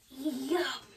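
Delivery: savouring storybook sigh; contented sigh. Acted. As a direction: sigh over something delicious. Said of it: "sighed Nibbles".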